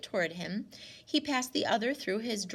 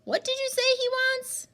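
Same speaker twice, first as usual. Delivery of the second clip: put-on loud, much higher old woman's question; loud demand; 6 dB louder than usual. Grandmother questioning Winnie about the stranger, loud. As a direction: demand an answer, suspicious.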